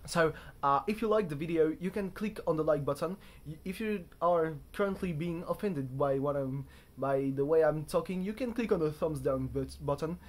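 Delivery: loud, hammed-up fake British accent; terrible British accent. Vlogger signing off to viewers in a bad British accent. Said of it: "close this video weblog with a terrible impression of a British accent".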